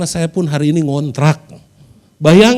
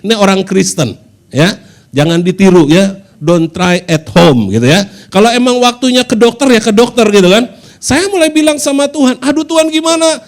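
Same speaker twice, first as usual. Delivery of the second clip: loud, higher preaching warning; emphatic preaching; 3 semitones higher, 6 dB louder than usual. Acted. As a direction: press the warning home to the church. Preaching louder.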